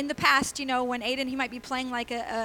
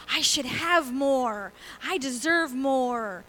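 slow, drawn-out entitled complaining; mock someone who feels owed more; entitled whine; 5 dB louder, much slower than usual.

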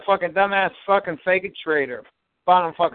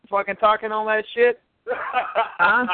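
laughing taunt; slower than usual. Real, not acted. Teasing caller by name.

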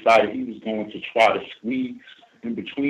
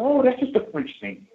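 high mock French accent; imitating a French coworker brushing it off. Coworker brushing off a complaint, in a mock French accent. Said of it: "in this accent".

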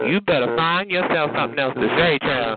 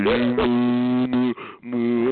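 mocking moo; 4 semitones lower, much slower than usual. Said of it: "Now you sound like a wounded cow".

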